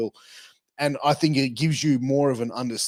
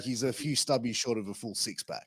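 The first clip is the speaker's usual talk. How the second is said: quiet repeat; 4 semitones lower, 9 dB quieter than usual. Shown as a demonstration. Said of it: "So, like".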